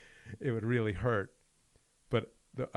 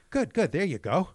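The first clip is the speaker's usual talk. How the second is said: loud, high, tight mock praise; imitated suppressed anger; 9 semitones higher, 8 dB louder than usual. Retelling the pro fighter just hit, mock angry. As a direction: praise forced out through clenched teeth. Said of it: "clearly angry".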